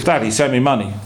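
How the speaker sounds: brisk, mildly indignant quote; aggressive reading. Retold or imitated. Upset father reads son's letter to wife, mildly aggressive. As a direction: read it out as a curt demand. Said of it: "his father gets all upset".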